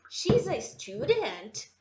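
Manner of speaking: slow, mocking question tune on "She's a student"; question by intonation only. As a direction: imitate a learner's rising-only question. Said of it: "é falar assim". (imitando o aluno, só entonação de pergunta)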